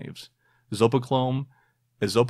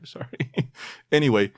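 ordinary talk, nothing marked

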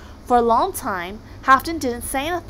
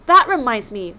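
loud monster roar; roaring Kraken; 2 semitones higher, 10 dB louder than usual. A narrator's reading. Kraken wallowing in rune juice, roaring. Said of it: "roared the Kraken".

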